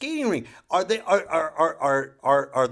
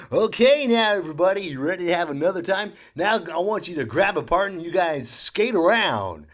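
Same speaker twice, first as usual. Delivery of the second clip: louder, peppy PA voice; rink announcer; 5 semitones higher, 5 dB louder than usual. Retold or imitated. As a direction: call out to the crowd. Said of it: "on the speaker again".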